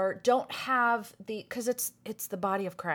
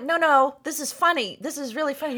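amused protest; 6 semitones higher, 6 dB louder, faster than usual. Retold or imitated. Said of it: "I'm like".

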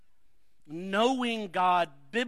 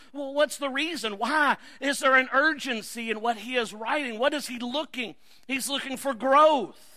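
raised, driving preacher's delivery; preaching; 6 semitones higher, 7 dB louder than usual. Real, not acted. Preacher urging the congregation to seek growth, urgent preaching. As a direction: preach it louder and higher with urgency.

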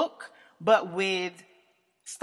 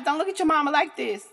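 lightly voiced daughter, raised voice; a hint of a horrified daughter; shocked daughter pleading; 6 semitones higher, 4 dB louder than usual. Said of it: "my daughter might ... pop like".

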